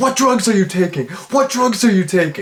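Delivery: acted, high, over-the-top hysterical screaming, overreacting. Retelling a funny scene, imitating her hysterical yelling. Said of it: "like she's just like yelling".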